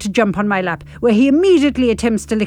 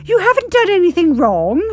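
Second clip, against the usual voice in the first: reassuring; 8 semitones higher, 3 dB louder than usual. Acted. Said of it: "I reassure him".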